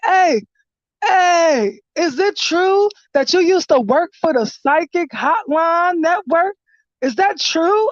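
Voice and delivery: mock-innocent taunt. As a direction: needle her with a fake-innocent question. Taunting her on the stream.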